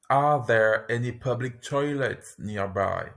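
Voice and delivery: slow and careful; careful teaching pace. Shown as a demonstration. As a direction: model it slowly for repetition. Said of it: "lesson repeats phrase twice".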